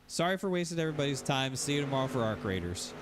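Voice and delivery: high-pitched mock giving up, sinking back down; imitating drained excitement. Deflated streamer calling it off to his viewers, imitated giving up. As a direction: act out a streamer throwing in the towel, pitch falling line by line. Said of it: "all of his enthusiasm, all of his excitement finally just drain out".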